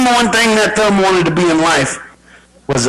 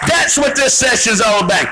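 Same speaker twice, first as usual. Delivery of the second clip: raised stage-host call, slowing at the end; announcer introduction. Real, not acted. Host bringing Entourage back on stage, announcer call. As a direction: build the welcome, then stretch out the name.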